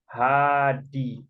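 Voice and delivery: "hadi" with an audible h, syllables apart; pronounced H. Shown as a demonstration. Teacher shows H at the front, pronounced H. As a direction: sound out "hadi" slowly as ha-di. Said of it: "Ini dibacanya".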